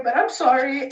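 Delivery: apology breaking into tears; holding back tears as you say sorry; real crying. Real, not acted. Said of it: "I'm not gonna cry on here".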